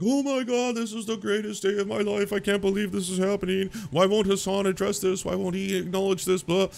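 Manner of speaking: very high, falsetto-like squeal of delight; mocking giddy right-wingers. Mocking the right celebrating Sam Hyde, high giddy squeal. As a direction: squeal like an overexcited fanboy. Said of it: "the right was like".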